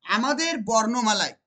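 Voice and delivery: slow, stressing আমাদের; slow for emphasis. Shown as a demonstration. Teacher stating the conclusion to students, slowly. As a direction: spell out the key phrase slowly. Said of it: "ভালো করে মনে রাখতে পারি".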